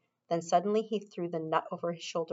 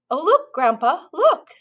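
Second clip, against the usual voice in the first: put-on high, eager boyish cry; excited cry; 9 semitones higher, 7 dB louder than usual. A narrator's reading. Charlie crying out to Grandpa, high and excited. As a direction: Charlie thrilled, calling his grandpa to look. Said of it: "cried Charlie".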